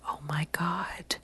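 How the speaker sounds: slow, barely audible whisper; hushed shock. Retold or imitated. Eavesdropper in stall hears awkward remark, aghast whisper.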